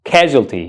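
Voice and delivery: careful model "casualty"; "casualty" with stress up front and a falling end; pronunciation demo. Shown as a demonstration. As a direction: say "casualty" as KAZH-ul-tee. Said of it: "listen carefully".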